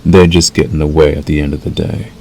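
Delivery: measured, unhurried wolf mentor role; lightly voiced werewolf guiding a new packmate. Acts wolf role to listener.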